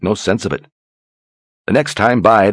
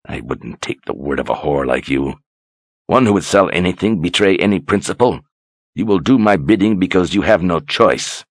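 sneering. Acted. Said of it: "he sneered derisively".

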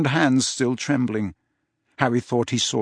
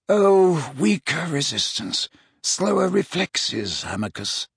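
put-on wry old wizard; 5 semitones higher than usual. Dumbledore wry.

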